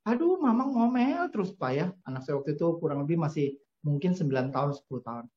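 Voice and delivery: put-on high, pleading little girl complaining to her dad; young daughter's voice. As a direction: sound like a nine-year-old begging Papa to answer back. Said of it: "Anak saya yang, eh, wanita datang kepada saya".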